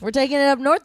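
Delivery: loud mock Canadian accent; playful Canadian twang. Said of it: "We do Canadian accents all the time".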